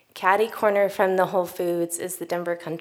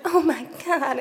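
shocked stranger; 8 semitones higher than usual. Retold or imitated. Stranger reacts again.

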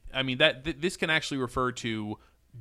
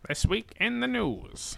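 put-on old-timey newsreel announcer; 9 semitones higher than usual. Joins old-timey newsreel bit.

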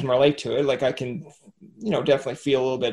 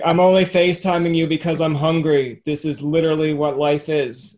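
cat voice; 5 dB louder than usual. Retold or imitated. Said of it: "you have a good cat voice".

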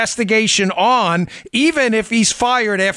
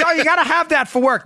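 high whiny mock of people; mimicking nagging coworkers; 11 semitones higher than usual. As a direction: sneer it back at them. Mocking people who insist.

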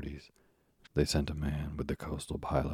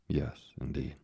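whispered agreement; slower than usual. A narrator's reading. Owner softly agrees.

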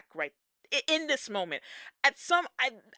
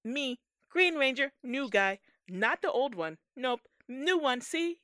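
mock Green Ranger; 3 dB louder than usual. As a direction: ham up a clueless new hero at a mic. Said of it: "Press conference".

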